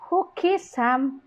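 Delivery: slow, high "Who", dropping to "Sam"; falling question tune. Shown as a demonstration. Teacher showing low pitch in questions, falling on "Sam". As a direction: ask slowly, falling on "Sam". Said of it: "Low pitch is also used in asking".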